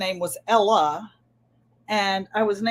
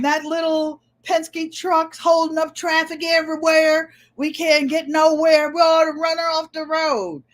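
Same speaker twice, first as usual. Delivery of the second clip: higher, louder griping trucker; gruff trucker voice; 6 semitones higher, 3 dB louder than usual. Retold or imitated. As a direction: complain loudly like a trucker. Truckers complain on the CB.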